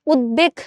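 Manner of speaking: উদ্বেগ said "ud-beg" with a full b; correct pronunciation. Shown as a demonstration. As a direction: set উদ্বেগ apart, sounding the ব. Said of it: "এই শব্দটার শুদ্ধ উচ্চারণ হচ্ছে উদ্বেগ".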